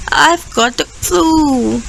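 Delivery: crying out sick. Acted. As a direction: cry out, feeling awful. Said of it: "he cried".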